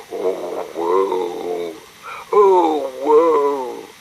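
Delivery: hammed-up lament of weeping trees. A narrator's reading. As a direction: moan it like grieving willows. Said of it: "as the trees wept buckets".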